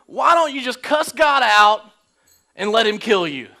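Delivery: loud mock scolding wife; hammed-up scolding wife; nagging wife. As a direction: bark it like a fed-up wife. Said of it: "she told him this".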